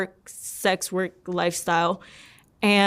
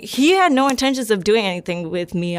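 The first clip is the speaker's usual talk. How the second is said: normal talking voice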